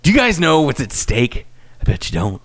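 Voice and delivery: hammy trailer announcer; dramatic promo read. Retold or imitated. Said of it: "the promo that you did".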